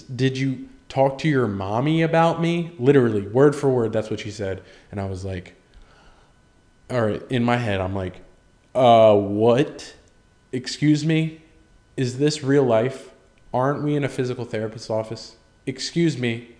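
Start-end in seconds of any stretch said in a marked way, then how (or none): 0.0-2.7 loud, high, drawn-out mock yell; yelled question. Girl at physical therapy confronting a patient, mock yell. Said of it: "why yell it?". 8.7-16.5 louder, incredulous inner voice; acted disbelief. Patient reacting in own head to awkward question, acted disbelief.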